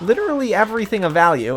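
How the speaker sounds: voice cracking mid-phrase, jumping high. Mid-sentence, the speaker's voice cracks. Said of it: "excuse my voice crack there".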